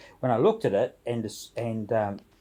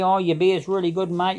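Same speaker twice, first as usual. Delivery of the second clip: mamby-pamby praise; 6 semitones higher than usual. Retold or imitated. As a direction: imitate a wishy-washy compliment. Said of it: "None of this mamby-pamby".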